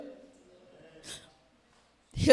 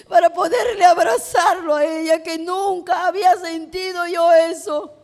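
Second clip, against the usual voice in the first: deeply moved testimony; 3 semitones higher, 3 dB louder than usual. Real, not acted. Moved testimony of new-found love.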